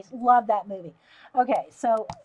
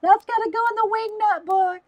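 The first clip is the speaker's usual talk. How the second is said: high and loud through laughter; can't get the words out for giggling; laughing; 10 semitones higher, 9 dB louder than usual. Real, not acted. Reading a viewer's comment, bursting into high laughter. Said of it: "I love that".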